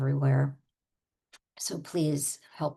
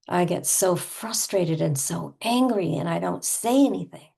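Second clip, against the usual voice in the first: sighing, emphatic frustration; sigh, then vent with punched stresses; played-up exasperated venting; pretend anger. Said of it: "especially with the anger".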